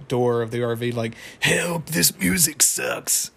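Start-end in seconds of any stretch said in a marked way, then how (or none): 1.4-3.3 high, drawn-out mock plea; acted cry for help. Muscle Man banging on the RV door, high mock call for help. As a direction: imitate a trapped cartoon character calling out.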